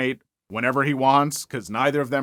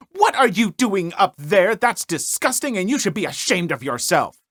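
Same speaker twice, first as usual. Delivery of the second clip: indignant, raised scolding voice; scolding Karen; 4 semitones higher than usual. Retold or imitated. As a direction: scold him like an outraged neighbor mom. Karen scolds kid on porch.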